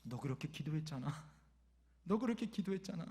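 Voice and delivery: softly spoken imitation of God, starting low; quiet, knowing divine reminder, lightly acted. God reminding the father of his prayer, soft-voiced. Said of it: "하나님의 음성이 들리는 거예요".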